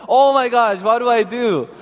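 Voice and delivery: high-pitched mock panic; retold panic. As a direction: exclaim it in helpless alarm, retelling. Father panicking in retold story.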